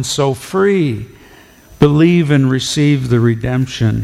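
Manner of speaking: solemn recitation of a hymn; hymn recited. Real, not acted. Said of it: "Listen as I share with you these words".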